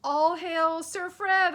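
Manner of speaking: put-on boy hailing his friend as a knight; mock solemn hail. A narrator's reading. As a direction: proclaim him like royalty.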